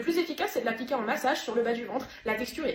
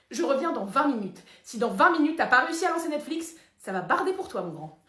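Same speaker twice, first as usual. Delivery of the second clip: stern threat; 3 dB louder than usual. Acted. Son threatens the father.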